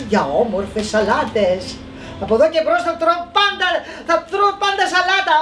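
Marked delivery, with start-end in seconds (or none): 2.2-5.4 higher, quicker, bright promise; happy resolve. Acted. Petros promises himself salads forever, higher and quick. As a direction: vow it with joy.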